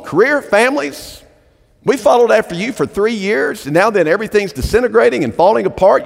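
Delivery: a disciple's frustrated outburst, lightly voiced; troubled disciple. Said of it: "somebody in their mind ... is going".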